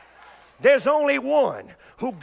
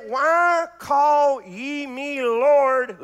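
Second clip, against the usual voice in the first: slow preached quote; much slower than usual. Real, not acted. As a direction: proclaim it slowly.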